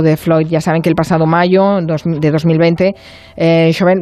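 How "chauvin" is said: French accent. Shown as a demonstration. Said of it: "yo lo digo con acento francés".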